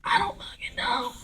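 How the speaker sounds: very high, slow, shouted through laughter; laughing disbelief. Retold or imitated. Actor reacting to ten million dollars with a laughing shout. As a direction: squeal it out in stunned laughter. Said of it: "I'm like".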